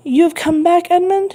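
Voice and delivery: hint of a Marseille accent, rising high; lightly voiced Marseille greeting; strong Marseille accent. A narrator's reading. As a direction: greet with a touch of Marseille accent, pitch climbing. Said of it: "with a strong Marseille accent".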